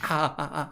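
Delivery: play-acted burned-hand "ah, ah, ah"; mock pained yelps. Player pretending the sword burns his hand, mock yelps. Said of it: "Burns his hand".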